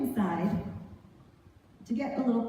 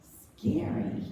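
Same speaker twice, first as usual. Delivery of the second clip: whispered. Real, not acted.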